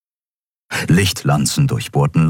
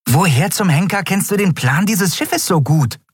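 high-pitched little figure's challenge; indignant demand; 12 semitones higher than usual. A narrator's reading. Nelen fluttering before Keru's eye, demanding indignantly. Nelen confronts Keru up close.

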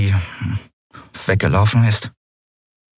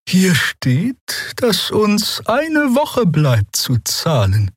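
langsam, hoch und sanft; 13 semitones higher, much slower than usual. A narrator's reading. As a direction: beruhigend und behutsam sprechen. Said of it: "sagte die Draxyl sanft". (sanft und langsam, beschwichtigend)

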